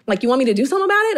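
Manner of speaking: a light impression of an easygoing friend, rushing at the end; loosely voiced buddy hyping her up; Kenya's voice. Best friend offering to help, lightly imitating Kenya. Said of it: "he talks like this".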